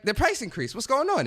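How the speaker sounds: high, hammed-up incredulous questioning; mock bewilderment. Asking his buddy about the price increase, mock bewilderment. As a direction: demand answers in comic dismay.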